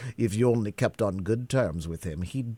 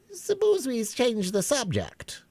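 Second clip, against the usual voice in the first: high, slow, bored drawl; lightly yawned change of subject; yawning March Hare. A narrator's reading. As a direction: sound tired of the talk.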